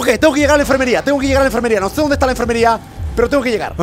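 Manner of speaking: rápido y agitado, huyendo; siendo perseguido. Real, not acted. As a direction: hablar apurado mientras huye. Huyendo a la enfermería. (siendo perseguido, apurado)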